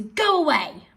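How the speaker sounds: loud command with GO pushed; firm command. Shown as a demonstration. Teacher showing pupils how a command sounds. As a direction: bark the order out. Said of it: "thinking about the voice you might use".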